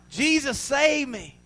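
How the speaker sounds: high, drawn-out mock plea; imitated desperate call to be saved; retold cry for help. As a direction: cry out as sinking Peter, acted. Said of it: "Cried out".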